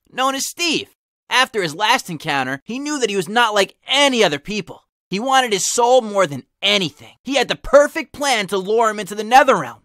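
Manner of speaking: steady storyteller reading a fanfic; story narration. Acted. Narrator reading the fanfic aloud to viewers, steady storytelling. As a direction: read it like a campfire tale.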